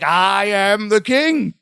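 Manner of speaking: slow, drawn-out boastful proclamation, imitated; mock a pompous leader, stretching the words; hammed-up self-important declaration; Donald Trump. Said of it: "he sounded like Donald Trump".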